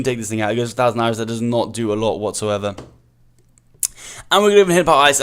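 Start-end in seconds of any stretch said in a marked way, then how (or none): 4.3-5.2 louder, higher burst as he commits; excited shout. Real, not acted. Player hyped at his winning move, excited shout. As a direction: punch it out like a winning call.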